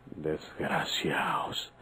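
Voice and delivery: slow, spat-out whisper; a slow, venomous whisper; bitter whispered curse. Acted. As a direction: curse them under your breath. Alone, cursing the lawyers.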